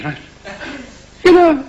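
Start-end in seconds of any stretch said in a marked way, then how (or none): 1.2-1.6 louder, lightly mocking radio-preacher catchphrase; preacher's "you know". Radio preacher addressing listeners, affected "you know". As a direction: toss it out as the preacher's key phrase. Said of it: "you know" is the key".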